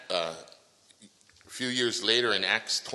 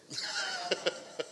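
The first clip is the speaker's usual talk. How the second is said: 1 light laugh. Real, not acted. Laugh after joke curse.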